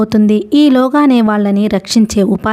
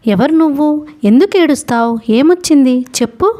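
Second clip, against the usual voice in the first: a woken ferryman, higher, asking sharply; lightly voiced old ferryman, concerned; startled ferryman; 6 semitones higher than usual. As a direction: rouse yourself and question the crying boy. Watchman just woken, questioning boy.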